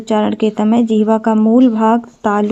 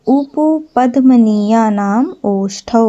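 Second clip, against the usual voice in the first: very slow, syllable by syllable; slow mnemonic recital; much slower than usual. Shown as a demonstration. Teacher giving the trick for lip sounds, slow recital. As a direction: draw it out so it can be memorized.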